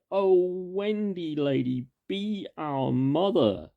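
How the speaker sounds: put-on high, loud and slow, begging as a chorus of boys; lightly voiced boys crying out to Wendy to be their mother; pleading lost boys. A narrator's reading. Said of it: "and cried".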